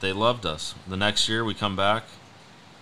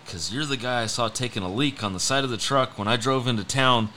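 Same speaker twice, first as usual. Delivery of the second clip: building from raised pitch to loud, high insistence; excited fan impersonation; 4 semitones higher, 5 dB louder than usual. Retold or imitated. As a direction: act out a worked-up fan, getting louder. Acting out an excited fan in anecdote.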